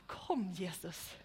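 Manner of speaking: a slow stage whisper to the actor; slow whispered cue. Real, not acted. Cueing the child playing Jesus.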